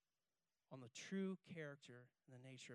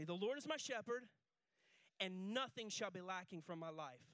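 congregation call-and-response; 3 semitones higher, 6 dB louder than usual. Shown as a demonstration. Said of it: "say this with me".

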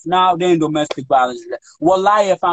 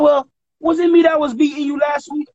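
mock sarcastic retort; 10 semitones higher than usual. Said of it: "I'm like".

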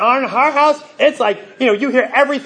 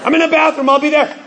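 high, laughing call from another room; calling back; 7 semitones higher, faster than usual. Retold or imitated. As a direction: yell back through the house. Parent answering from bathroom.

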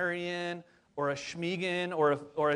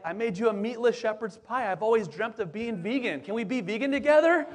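mock-sweet plea breaking into a laugh; a hint of the wife, chuckling by the end; imitating wife, laughing; 4 semitones higher, 5 dB louder than usual. Wife's hopeful vegan request.

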